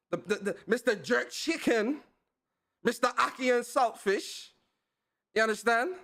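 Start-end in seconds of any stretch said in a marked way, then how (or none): 0.7-4.5 put-on shaky-at-best Jamaican accent, pitched up; higher-pitched amateur Jamaican accent; attempted Jamaican accent. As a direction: have a go at a Jamaican accent, hyping your co-host. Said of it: "the Jamaican accent is the only accent".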